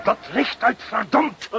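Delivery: high, slow call across the roofs; urgent call. Acted. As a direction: call the order out across the rooftops. Chasing burglar on the roof. (hoog en dringend geroepen)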